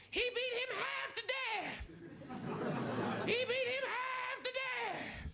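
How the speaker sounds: put-on very high, slow frantic old woman cry; panicked old woman. Old woman over the beaten guy, shrill panicked wail. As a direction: wail it like a terrified old lady. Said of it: "She keeps going".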